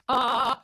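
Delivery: put-on high loud baby wail; a sudden high cry with vibrato; newborn cry. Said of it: "I went".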